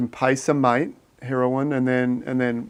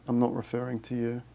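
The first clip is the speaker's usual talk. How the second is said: much softer, almost to himself; softer repeat; 2 semitones lower, 9 dB quieter than usual. Real, not acted. Repeating to Z Gazette in chat, much softer. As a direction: drop the volume on the repeat.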